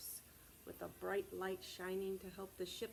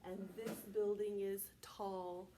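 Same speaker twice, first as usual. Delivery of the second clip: put-on slow, rhythmic poem for kids; reciting a nursery poem; poem recital; slower than usual. Shown as a demonstration. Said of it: "We say".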